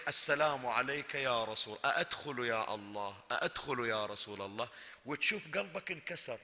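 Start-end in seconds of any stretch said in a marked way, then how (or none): 0.1-4.7 hushed plea. Acted. زائر يستأذن عند باب الضريح.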